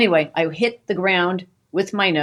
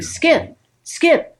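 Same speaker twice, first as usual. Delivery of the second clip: high, loud calling a name; shaking husband awake, calling his name high and loud; urgent calling; 12 semitones higher, 4 dB louder than usual. Retold or imitated. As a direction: call him awake, urgent. Waking sleeping husband urgently.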